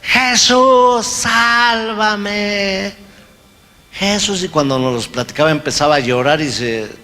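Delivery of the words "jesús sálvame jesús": high, loud pleading shout; desperate cry for help. Retold or imitated. Captive begging Jesus to save him, high pleading shout. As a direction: scream for Jesus to save you. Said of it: "él gritaba más".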